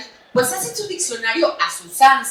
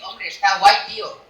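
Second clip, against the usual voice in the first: 1 mock Spain Spanish; 3 semitones lower, 6 dB louder than usual. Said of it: "así lo dicen ellos".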